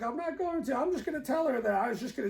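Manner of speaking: quick, high, fibbing boyfriend imitation; high mock boyfriend voice. Boyfriend promising to leave Nikki home, high and hurried. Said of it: "He's like".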